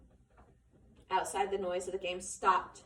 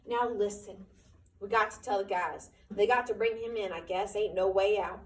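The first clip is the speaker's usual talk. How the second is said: a touch of sharpness, firm and clipped; sharp; 5 dB louder than usual. Acted. George telling Candy to fetch the guys, sharp. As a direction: give the order with a hard edge. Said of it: "he said sharply".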